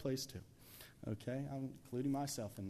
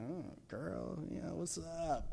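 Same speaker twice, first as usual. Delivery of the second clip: smitten flirt; 4 semitones higher than usual. Acted. Samson smitten on seeing the woman.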